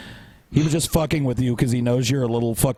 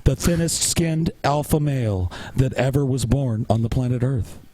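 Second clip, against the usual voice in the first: mock self-introduction as an insecure alpha male; lightly imitated rival, sending him up; Devin impression. Co-host signs off his parody of a rival, lightly mocking. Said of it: "You were talking a little too fast to be Devin".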